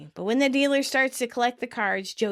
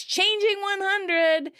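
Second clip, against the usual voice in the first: slow drawn-out dealer call, pitched up; 10 semitones higher, slower than usual. Retold or imitated. Dealer breaking Joey's hundred, drawn-out call. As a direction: announce it like a Vegas dealer. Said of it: "he shouts".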